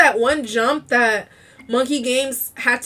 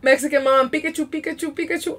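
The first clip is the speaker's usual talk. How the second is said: put-on a light Mexican accent on Pikachu; 4 dB quieter, faster than usual. Streamer slipping into a mild Mexican accent saying Pikachu. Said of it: "Why did I say it, like, in a, in a Mexican accent?".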